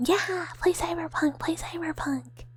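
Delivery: high, hushed little chant; excited urging. Real, not acted. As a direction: egg the listeners on excitedly. Urging viewers to play her favorite.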